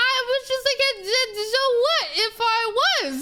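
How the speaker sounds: high-pitched, stumbling through laughter; breaking up with amused disbelief; laughing comeback. Retold or imitated. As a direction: struggle to get it out while laughing. Laughing while retelling her comeback.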